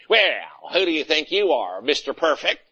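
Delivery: sarcastic sneer in another voice; mocking retort. Churchgoer scorns the minister's advice, sarcastic and in a put-on voice. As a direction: throw it back at him.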